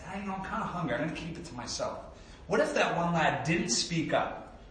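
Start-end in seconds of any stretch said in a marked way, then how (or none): 0.1-2.0 reluctant mumble. Retold or imitated. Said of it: "didn't speak up and said".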